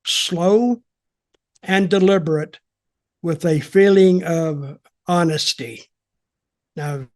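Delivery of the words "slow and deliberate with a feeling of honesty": slow, deliberate, honest-sounding delivery. Shown as a demonstration. Wrestling host describing a wrestler, slow and deliberate. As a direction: lean into each word slowly. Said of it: "he talks slow".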